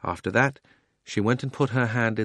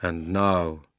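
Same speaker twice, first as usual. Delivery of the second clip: deep, solemn lion king speaking gravely; Aslan; 3 semitones lower, slower than usual. Acted. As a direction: speak as the great lion, slow and grand. Aslan's voice in the story.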